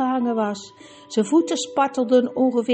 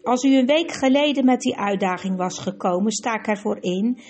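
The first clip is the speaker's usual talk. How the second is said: plechtig en streng, een oude koning die vonnis velt; statige koning; 2 semitones higher than usual. Acted. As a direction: spreek waardig en beheerst, met gezag. Koning spreekt streng oordeel uit. (lichte vertolking van een strenge koning)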